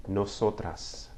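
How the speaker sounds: "nosotras" said slowly as no-SO-tras with a tapped r; teacher modelling the feminine "nosotras" slowly; slow Spanish nosotras. Shown as a demonstration. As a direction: spell out "nosotras" syllable by syllable. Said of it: "feminine form".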